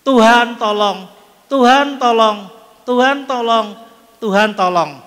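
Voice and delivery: mild mock pleading prayer; retold prayer. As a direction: imitate her repeated plea, slowed. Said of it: "dalam tersesat itu berdoa".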